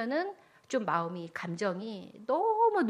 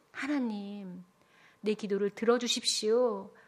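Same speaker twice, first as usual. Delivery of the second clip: acted prayer; 4 dB louder than usual. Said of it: "하나님께 기도한 거지요".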